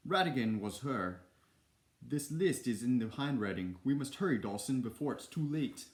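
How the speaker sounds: urgent British attempt turning Schwarzenegger; accent sliding into Schwarzenegger. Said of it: "I think I'm back in the Schwarzenegger".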